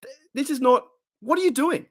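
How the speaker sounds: high-pitched laughing disbelief; amused exasperation. Retold or imitated. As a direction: laugh while asking what he's doing. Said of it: "drinking away going".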